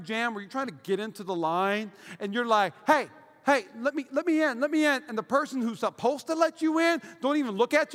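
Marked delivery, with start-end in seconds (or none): 2.8-5.0 raised-pitch begging to get in; comic, insistent plea; mock pleading. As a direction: call to another driver for a favour. Acts out pleading in traffic jam.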